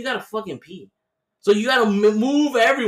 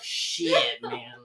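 whispered dismay; 8 semitones lower, 4 dB quieter than usual. Retold or imitated. Retold whisper at bank balance.

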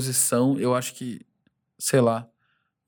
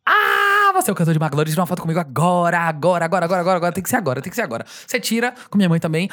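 pushy fan; 4 semitones higher, faster than usual. Retold or imitated. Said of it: "às vezes rola tipo assim".

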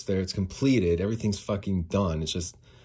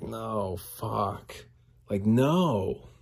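exasperated retold refusal; mad; 2 semitones higher, much slower than usual. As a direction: groan the refusal in frustration. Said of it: "'cause I'm so mad".

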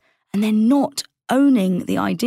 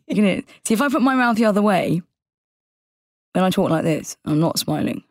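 ordinary talk, nothing marked

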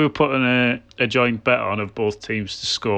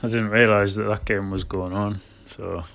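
utterly unenthusiastic. Real, not acted. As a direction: let the interest drain away as you go. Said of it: "you couldn't sound any less enthusiastic".

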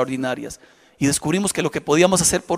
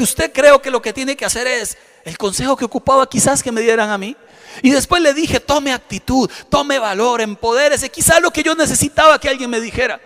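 rousing exhortation; 6 semitones higher than usual. Retold or imitated. Urgent exhortation to the woman.

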